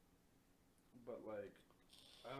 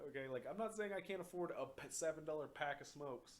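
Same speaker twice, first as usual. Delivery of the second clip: exasperated; 4 semitones higher, 5 dB louder than usual. Retold or imitated. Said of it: "I'm like".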